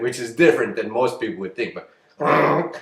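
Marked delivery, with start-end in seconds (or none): 2.2-2.7 a short growl standing in for ribbit; mock frog growl. Shown as a demonstration. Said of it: "is how I say ribbit".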